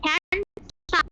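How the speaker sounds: হ্যান্ডসাম slowly, with a gap: hand, sam; broken into syllables. Shown as a demonstration. Teacher showing a two-clap adjective, slowly broken in two. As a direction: split হ্যান্ডসাম into two separate beats. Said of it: "হ্যান্ডসাম দুইবার ভেঙে বললাম".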